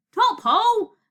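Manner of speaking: loud, high, jolly shout back; hearty yell. A narrator's reading. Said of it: "Zeus yelled back".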